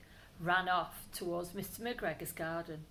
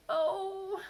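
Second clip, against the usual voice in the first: groan; 11 semitones higher, 5 dB louder than usual. Acted. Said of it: "he groaned".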